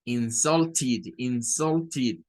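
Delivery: "insulted" with the ending as a full "id"; careful demo of "insulted", ending in "-tid"; -ed sounded as id. Shown as a demonstration. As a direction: say "insulted" in three clear syllables, in-SUL-tid. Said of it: "la ed va a sonar a id".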